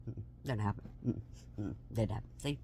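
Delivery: low, soft mm-mm didn't happen; smug dismissal. Real, not acted. Mom quietly gloating the friend failed. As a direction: shut it down quietly and smugly.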